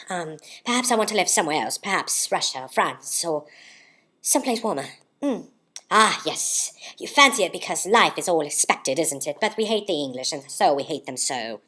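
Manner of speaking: lightly theatrical monologue voice; Katharine Hepburn. Acted. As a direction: muse grandly, improvising as you go. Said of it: "read it like Katharine Hepburn would".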